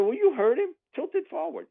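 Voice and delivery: mock sarcastic coach. Coach mocking kicker's request.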